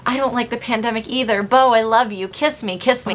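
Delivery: a hint of a lovesick fan; gushing fan parody. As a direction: swoon over Bo like a fan. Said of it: "we as viewers go".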